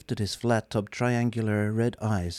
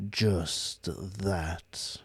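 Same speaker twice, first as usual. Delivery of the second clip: slow, lifeless robot voice; bored superior machine; depressed robot drones on; gloomy robot; 3 semitones lower, 5 dB quieter than usual. Acted. Marvin's voice.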